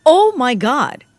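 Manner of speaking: loud and drawn out in disgust; appalled, loudly; disgusted outburst. Acted. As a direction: recoil at the message, out loud. Reacts to the creep's messages.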